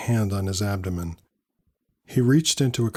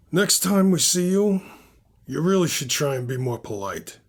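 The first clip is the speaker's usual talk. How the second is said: driver's warning; 6 semitones higher than usual. A narrator's reading. Narrator voices the threatening driver.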